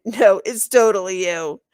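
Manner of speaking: loud ribbing; teasing. A narrator's reading. Boy teasing his friend about the drawing. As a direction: rib your friend loudly.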